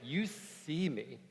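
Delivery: laughing. Real, not acted. Laughing through dramatic quote.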